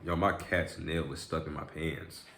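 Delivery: usual speaking voice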